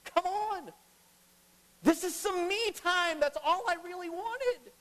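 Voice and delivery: sarcastic pastor mimics an annoyed Jesus brushing the woman off; mock put-out Jesus. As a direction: play a put-upon man guarding his me time. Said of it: "He doesn't say".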